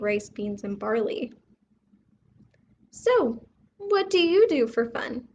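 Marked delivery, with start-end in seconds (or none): 2.9-5.3 higher, louder eager asking; lifted, keen question to the cousin. Acted. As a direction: ask it like a bored visitor perking up. City mouse asks cousin.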